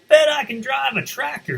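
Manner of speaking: high, loud eager duck; hammed-up duck boasting; excited duck voice. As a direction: squeal it like a proud little duck. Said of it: "he said".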